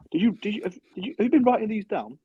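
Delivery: high-pitched mocking imitation of a friend; hammed-up, high incredulous questioning; Ash. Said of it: "when Ash was going".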